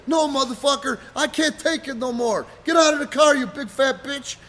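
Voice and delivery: loud, high, fed-up yelling; retold angry refusal. Wrestler refusing to get back in car, angry yelling. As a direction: yell back at him, completely fed up.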